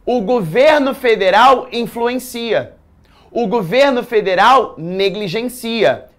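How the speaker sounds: slow, emphatic read, stressing governo; demo example sentences. Shown as a demonstration. Teacher modelling example sentences for students, slow and emphatic. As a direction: read both verb examples slowly and clearly. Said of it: "Quando eu digo".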